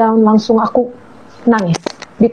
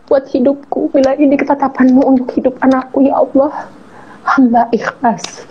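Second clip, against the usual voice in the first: sincere prayer; 4 semitones higher than usual. Retold or imitated. Praying words, slow.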